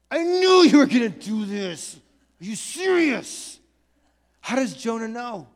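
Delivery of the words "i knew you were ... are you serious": exasperated, incredulous complaint; mild tantrum. Acted. Jonah complaining to God that he knew, in a mild tantrum. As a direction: protest in acted disbelief. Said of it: "temper tantrum".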